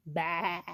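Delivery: low bleated baa; sheep baa. A narrator's reading. Sheep says hello to Blue, low baa. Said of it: "Sheep said".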